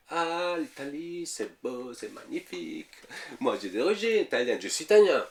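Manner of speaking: high, gushing imitation of fans of Italy; mock gushing. Imitating a French person raving about Italy, high mock gush. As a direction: ham up the starry-eyed Italy lover.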